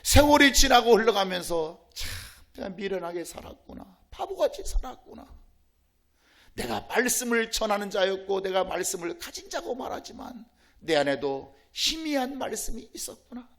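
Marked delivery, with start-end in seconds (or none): 1.9-13.5 quiet, regretful self-reproach; rueful confession. Acted. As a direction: sigh it out as a pastor's confession. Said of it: "이걸 깨닫게 된다". (후회하며 조용히)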